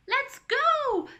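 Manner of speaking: high, loud rallying shout; eager grandfather. A narrator's reading. Grandfather woken by laughter, excited shout. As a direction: burst out, ready to run.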